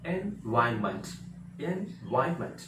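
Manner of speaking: "एनवायरनमेंट" as "en-VAIN-ment", repeated after pauses; silent r. Shown as a demonstration. Teacher drilling the word for learners, silent r. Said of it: "आर का pronunciation हो ही नहीं रहा".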